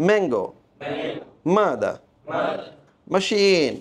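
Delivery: ম্যাঙ্গো, মাদা, মেশিন starting on nasal M; one word at a time, M through the nose; M sound demo. Shown as a demonstration. Teacher giving examples of M, careful word drill. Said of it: "এমটা হচ্ছে মা".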